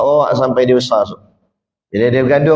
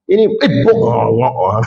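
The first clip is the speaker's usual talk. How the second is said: a sudden half-shouted yelp, imitating a startled person; hammed-up startled cry; mock startled outburst; 4 semitones lower than usual. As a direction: blurt it out like someone caught off guard.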